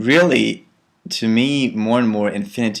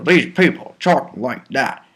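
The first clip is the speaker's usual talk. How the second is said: Eastern German accent; 3 semitones higher than usual. Shown as a demonstration. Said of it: "German accent".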